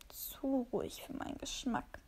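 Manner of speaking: hushed, slow, almost breathless aside; wary murmur. A narrator's reading. The cat, uneasy at the calm dog, murmurs. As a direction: let it slip out under the breath.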